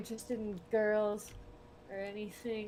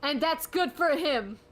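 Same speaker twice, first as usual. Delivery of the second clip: emphatic approval; 7 semitones higher, 10 dB louder, slower than usual. Real, not acted.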